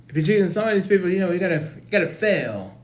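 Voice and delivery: fast-talking mock African American accent. Principal warns Baby Scrubs he'll fail, African American accent. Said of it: "Time for African American accent now".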